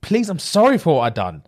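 high-pitched, hammed-up begging; imitated tearful pleading. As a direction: plead like a crying woman, voice climbing. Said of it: "She's crying, fam".

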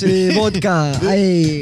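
put-on playful half-hearted Russian accent; mock Russian accent. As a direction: joke Russian accent to make the table laugh. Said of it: "Hey, I can talk like this".

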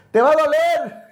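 mock a courteous warning; hammed-up gallant caution; kindly manner. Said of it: "de una bonita manera".

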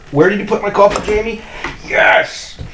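high-pitched call across the room. Real, not acted. Calling to Jamie across the room about the lost coffee, high call.

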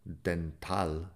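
"dental" as "denal", T dropped. Shown as a demonstration. Teacher isolating "dental" without its T. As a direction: skip the T in "dental". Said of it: "tampoco estoy diciendo la T".

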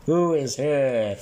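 slow booming call down a passage. Retold or imitated. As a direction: stretch it out, big and slow. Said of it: "Yeah, that's better".

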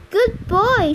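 high, pleased dog praise; praising a dog. A narrator's reading. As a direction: reward a dog with your voice. Praising the dog with raised pitch.

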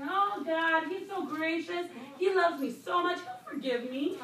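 airy, pitch lifted, self-satisfied; mock complacent sinner. To the women, mocking a careless believer's prayer. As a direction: play the sinner leaning on grace. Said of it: "We don't go on sinning saying".

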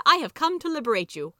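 loud, high declaration of rescue; heroic proclamation. A narrator's reading. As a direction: declare it grandly, like a saviour. Savior proclaims liberation to handmaids.

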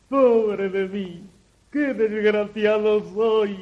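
mock sorrowful sighing; put-on despair, moderate; fake lamenting. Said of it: "con falsas demostraciones de desconsuelo".

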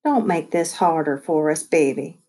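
low, tender plea; soft. Acted. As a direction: say it softly and lovingly. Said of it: "Trotter said softly".

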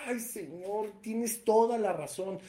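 suspiro compungido, algo más suave al empezar; arrepentimiento actuado. Acted. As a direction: imita a un pecador que se lamenta. Acted repentant sinner answering God. (lamento fingido de pecador arrepentido)

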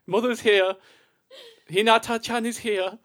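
put-on Geordie footballer voice; Geordie accent. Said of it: "do a Geordie accent".

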